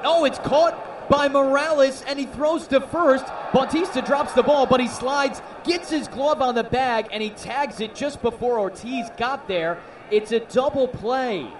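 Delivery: loud, high-pitched live commentary; urgent baseball call building to the double play; excited play call. Real, not acted. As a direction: shout the action as it unfolds.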